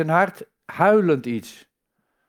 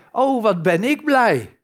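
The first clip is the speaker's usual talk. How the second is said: spottend blij; 6 semitones higher, 4 dB louder than usual. Pretend. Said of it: "door het leven gaan als zijnde".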